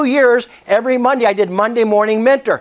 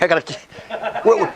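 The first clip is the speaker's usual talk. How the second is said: real laugh through the words, slower and much softer; 4 dB quieter, slower than usual. Real, not acted. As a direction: lose it in a laugh while trying to speak. Breaks into laughter mid-sentence.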